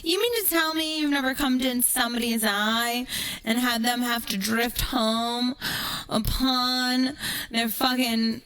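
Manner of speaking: heated sarcastic tirade; incredulous rant. Real, not acted. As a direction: scoff at the critic, pitch climbing. Indignant rant at a critic.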